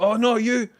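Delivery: high, loud dismayed lamb voice; voicing the lamb. Voicing the lamb being rejected.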